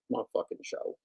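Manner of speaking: My fucking show said in a whisper. Shown as a demonstration. Repeating his own line to chat, whispered. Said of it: "whispered repeat".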